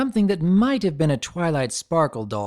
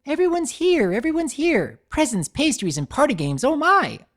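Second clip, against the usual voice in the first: high, loud squeals of joy; gleeful chant of "everyone's here"; bouncing excitement; 13 semitones higher, 4 dB louder than usual. A narrator's reading. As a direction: burst with party glee. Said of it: "started to bounce around".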